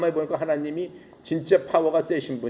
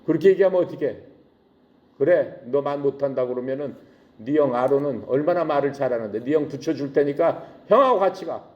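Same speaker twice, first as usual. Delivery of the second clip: angry scolding. Acted. God mildly scolds Moses for making excuses. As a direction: huff at him like an exasperated father. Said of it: "화를 내시면서".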